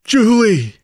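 loud anguished shout; despairing cry. Acted. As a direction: cry out her name in despair. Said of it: "Ned's despairing cry".

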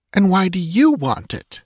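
high-pitched, petulant woman's voice; sulky demand. A narrator's reading. Dancer questions the priest's motive, sulky. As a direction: demand it in a huff. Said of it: "she demanded sulkily".

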